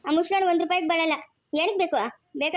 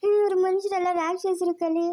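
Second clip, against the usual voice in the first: crying plea; slower than usual. Acted. Wife crying, pleading with husband.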